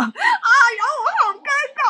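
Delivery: giggling embarrassment; embarrassed laughter. Real, not acted.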